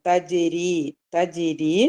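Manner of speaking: തജിരി with a light j, tongue back kept down; measured recitation of തജിരി, light consonants; light letter. Shown as a demonstration. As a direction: keep the ജ of തജിരി thin. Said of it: "ഇത് light letter ആണ്".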